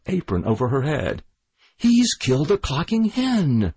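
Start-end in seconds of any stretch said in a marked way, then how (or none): 1.8-3.7 alarmed cry. A narrator's reading. The widow cries out in horror under her apron. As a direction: cry out in horror at the dead hen. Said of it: "she said".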